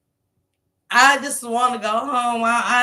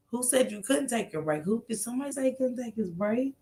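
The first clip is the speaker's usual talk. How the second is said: hushed whisper; 12 dB quieter, faster than usual. Real, not acted. To the camera on the bus, in a hush. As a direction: murmur it fast under the noise.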